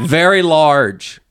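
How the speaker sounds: spooky storyteller building dread; slow ominous. Acted. Spooky storyteller drawing out the dog man's size to Stephanie. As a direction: drag it out slowly, very large.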